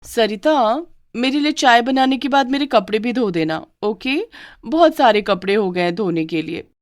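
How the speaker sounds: bossy bride. Acted.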